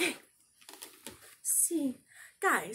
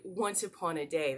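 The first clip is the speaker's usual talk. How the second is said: Moira's phrase; 4 semitones lower, 4 dB quieter than usual. Retold or imitated. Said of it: "Moira likes to say".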